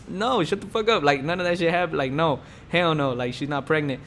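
retold annoyed protest, starting high; pissed. Telling his hyped-up friend to stop, mildly pissed. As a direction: push back in mock irritation, pitch jumping at first. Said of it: "like, pissed".

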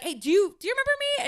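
high-pitched hopeful greeting; retold tentative greeting. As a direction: imitate yourself checking if he knows you. Retelling tentative greeting to old coworker.

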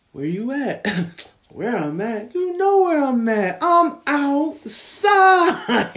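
high, loud, slow "I'm outside"; imitating a text exchange. Imitates friend's text and reply.

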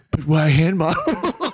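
slowed, laughing through it; slow laughing line. Retold or imitated. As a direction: drag it out while laughing. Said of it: "He's like".

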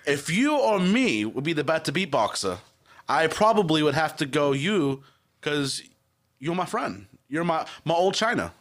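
put-on British accent, drawn out; awful English accent. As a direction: play an exaggerated English mate, badly. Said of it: "your accent is awful".

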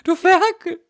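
very high, scandalized voice; outraged maiden. Pretend. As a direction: cry it out like a shocked damsel.

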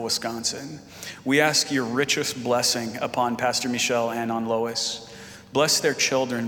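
measured, earnest spoken prayer; public prayer. Real, not acted. Pastor praying for the visiting couple before the message, earnest prayer. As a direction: lead the church in prayer, unhurried.

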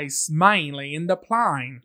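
slow, drawn-out mock Cockney; mock Cockney accent. Co-host quotes My Fair Lady, mock Cockney accent. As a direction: stretch the vowels in fake Cockney. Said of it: "Have you seen My Fair Lady?".

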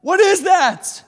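shrieking high and loud in panic; frightened shout. Acted. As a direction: cry out as if you've seen a ghost. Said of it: "they go".

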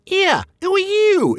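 very high, slow squeak; squeaking purse. Acted. The troll's purse crying out as Bilbo lifts it, a high squeak. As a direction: squeak it out like a tiny startled purse. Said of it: "it squeaked".

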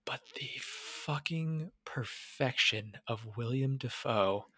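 slow reverent whisper, almost no voice; awed whisper. Real, not acted. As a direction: hush it like sacred praise. Awed praise of Dafoe.

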